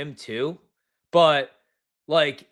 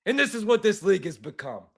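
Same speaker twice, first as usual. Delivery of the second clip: mock New York caller, disgusted; New York caller rant; 4 semitones higher, 3 dB louder than usual.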